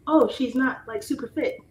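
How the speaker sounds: mock critic. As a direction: imitate a catty commenter.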